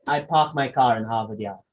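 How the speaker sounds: "I park my car in Harvard Yard" with silent R, "pahk", "cah"; British English dropped R; non-rhotic British English. Shown as a demonstration. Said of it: "would say".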